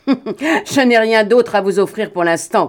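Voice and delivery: sneering through laughter. A narrator's reading. Broom mocks Morane's refusal, still sneering with laughter. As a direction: let the sneer spill into the words. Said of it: "Broom ricana".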